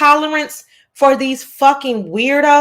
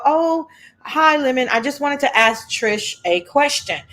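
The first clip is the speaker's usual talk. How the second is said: a light touch of put-on sweetness, lightly higher at the start; sweet sassy voice; 3 semitones higher than usual. Greeting the host in a sweetly sassy put-on voice. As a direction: fakes polite sweetness to catch Trish out. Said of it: "in my sweet, sassy voice".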